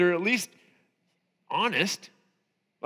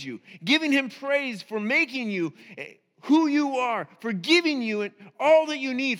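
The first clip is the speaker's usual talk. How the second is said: a touch of raised sermon voice; preaching; 3 semitones higher than usual. Acted. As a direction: urge the congregation to praise. Preaching to congregation.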